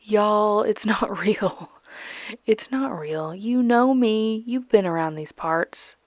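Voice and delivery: put-on country accent. Jokingly denying her country accent.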